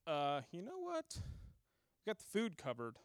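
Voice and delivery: slow, mildly voiced grumbling crowd; grumbling Israelites. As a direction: drawl it out like a complaining crowd. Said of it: "and they're like".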